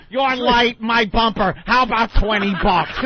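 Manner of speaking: lightly voiced guy at a fender bender; mock street haggling. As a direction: play the cheapskate haggling over a dent. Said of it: "stand there and go".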